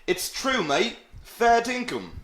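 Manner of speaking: high-pitched, exaggerated Aussie accent; bad Australian accent. Shown as a demonstration. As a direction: put on a badly faked Australian accent. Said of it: "That was a very bad Australian accent".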